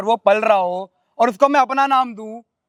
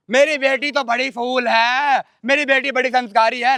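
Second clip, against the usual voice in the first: sarcastic praise. Acted. Husband mocks mother praising daughter.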